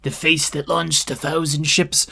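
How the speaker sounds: mock presenting his beautiful wife, lightly acted; lightly voiced proud husband. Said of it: "He's like".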